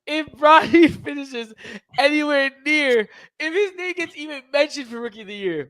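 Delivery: can't believe the idea; incredulous. Real, not acted. Incredulous high outburst.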